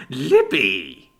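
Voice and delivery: a loud, furious call through the door; furious yell. Acted. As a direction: shout her name in rage. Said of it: "he yelled furiously".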